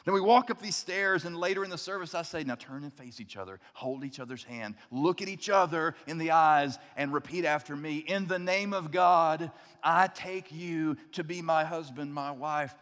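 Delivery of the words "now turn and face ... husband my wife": saying wedding vows. Pretend. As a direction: recite vows with reverence. Officiant leads couple's vows.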